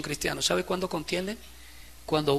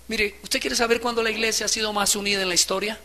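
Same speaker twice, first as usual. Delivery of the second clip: ordinary talk, nothing marked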